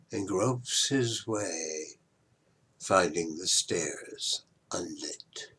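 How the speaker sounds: breathy whispered close. Acted. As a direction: let it fade into a whisper. Closing line of the clerk's exit.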